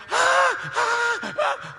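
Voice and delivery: loud, high trembling shrieks; terrified gasps. Retold or imitated. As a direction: gasp in panic, acted out big. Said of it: "ele tremia que nem uma folha seca". (gritos ofegantes de pavor)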